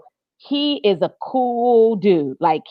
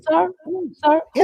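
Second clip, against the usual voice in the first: higher, shocked and scandalised "sir"; mock shock; 7 semitones higher than usual. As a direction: gasp it out like a scandalised church lady. Mock shocked reaction to caller.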